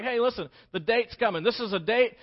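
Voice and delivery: high and loud with eager joy; excited bride. Acted. Bride waiting at the front door, high and excited. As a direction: squeal it like the date is here. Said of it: "and she's excited".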